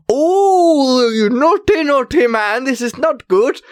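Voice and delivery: high, sing-song tutting at a naughty man; mock scolding. Magician teasing the cheating guest, high mock scolding. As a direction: chide him like a camp schoolteacher.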